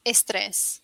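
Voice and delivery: "Estrés" with an e in front of the s; Spanish estrés. Shown as a demonstration. Teacher shows the Spanish word for stress. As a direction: add an e before the s in "Estrés". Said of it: "You say estrés".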